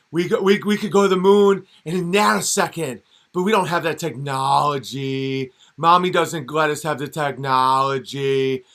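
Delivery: put-on loud, bragging little-kid voice; childish boast. Cartoon character fibbing to viewers, in a loud childish boast. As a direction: brag like a kid making things up. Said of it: "They can be like".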